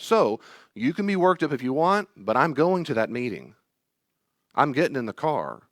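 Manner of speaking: firm adult. Retold or imitated. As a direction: lead the reluctant kid out. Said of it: "as the adult, that's the one talking".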